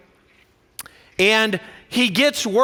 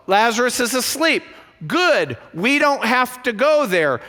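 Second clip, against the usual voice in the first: relieved disciples. Retold or imitated. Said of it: "They're like".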